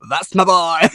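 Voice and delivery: imitated New Yorker catchphrase; New Yorker accent. Repeating the character's line from the whole episode, New Yorker accent. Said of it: "It's a typical New Yorker accent".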